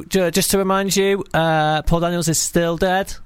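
slow, lightly mocking reminder; mock announcement. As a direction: announce stale news slowly and deliberately. Mimics a pointless news reminder.

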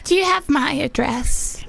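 put-on old lady asking; lightly voiced granny on the phone; elderly grandmother. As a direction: play the elderly caller. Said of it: "grandmother and granddaughter".

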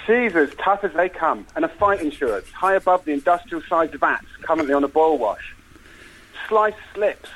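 measured trailer-style storytelling; film pitch narration. Acted. Pitching a cop film to the hosts, dramatic narration. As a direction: set the scene in dramatic phrases.

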